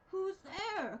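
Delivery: high, loud gruff call; wolf's big voice. A narrator's reading. Wolf in bed calling, hammed-up. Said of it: "hearing the big voice of the wolf".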